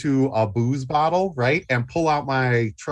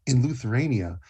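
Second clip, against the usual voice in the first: much lower, softer, quick purr; seductive murmur; 8 semitones lower, 5 dB quieter than usual. Acted. Luther sweet-talking the women, low soft purr. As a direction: drop into a sultry hush.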